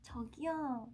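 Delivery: gentle, polite call for attention; nice version. Shown as a demonstration. Idol giving fans a nice version, gentle. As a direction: say it kindly, without any edge. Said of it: "착한 버전 저기요?".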